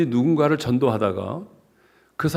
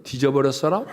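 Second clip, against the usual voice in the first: Jeolla dialect. Shown as a demonstration. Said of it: "전라도 말로는".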